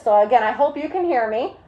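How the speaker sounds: muffled through a face mask and shield. Real, not acted. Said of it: "hear me through this mask and face shield".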